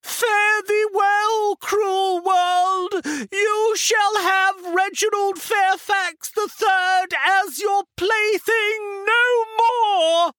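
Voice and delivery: high, very slow plummy Shakespearean farewell; drawn-out, projected stage melodrama; grand declamation. A narrator's reading. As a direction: declaim to the world like a camp tragedian. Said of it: "raised his voice to address the world at large".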